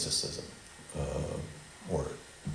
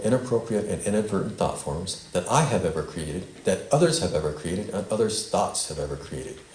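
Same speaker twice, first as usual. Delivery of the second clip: spoken affirmation. Shown as a demonstration. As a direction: release statement read out firmly in one flow. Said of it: "I'm gonna say it, the whole statement, rather quickly".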